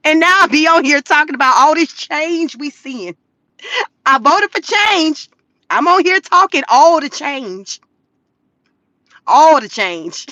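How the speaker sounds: half-laughing fake sob over her own vote; mock crying. Voter mock-crying to her live viewers about the change. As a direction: play at crying, amused at herself.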